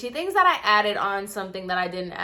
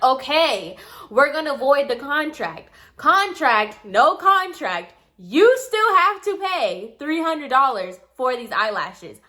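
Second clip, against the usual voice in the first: firm, slow and a bit louder; blunt and direct; 3 semitones higher, 3 dB louder than usual. Retold or imitated. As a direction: lay it out flat for a stubborn client. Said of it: "being very blunt and direct with her".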